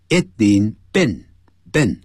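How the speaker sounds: "been" clipped short like bin; short vowel in been. Shown as a demonstration. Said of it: "它是短音节".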